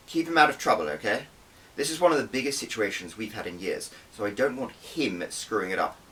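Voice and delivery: lightly voiced boss warning. Spy chief warning her agent, stern and firm. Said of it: "Mother glanced once more at me and warned".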